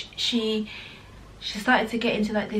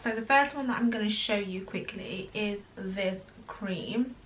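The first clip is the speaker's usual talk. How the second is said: whispered; 5 dB quieter than usual. Real, not acted. Whispered product intro.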